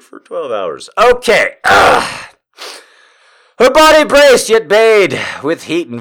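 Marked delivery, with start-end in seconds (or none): none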